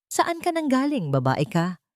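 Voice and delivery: sharp, haughty demand, pitch jumping up at the start; mataray na tanong. A narrator's reading. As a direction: snap the question at her like a scornful queen. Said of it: "mataray na tanong nito". (mataray na tanong ng biyenan kay Lira)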